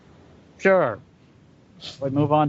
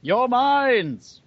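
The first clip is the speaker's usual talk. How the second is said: very slow, higher put-on oracle voice; mock grand oracle; 8 semitones higher, much slower than usual. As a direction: drawl it out like a pompous sage granting an audience. Mock grand invitation to questions.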